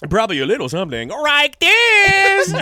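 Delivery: put-on high-pitched caricatured Asian accent, loud finish; mock Asian accent. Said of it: "you guys do an Asian voice".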